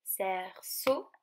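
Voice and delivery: "Cerceau" in two beats, rising on the last; syllable by syllable. Shown as a demonstration. Teacher shows children the shared ending, "Cerceau" split in two. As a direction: pause before the final syllable of "Cerceau". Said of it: "la dernière syllabe".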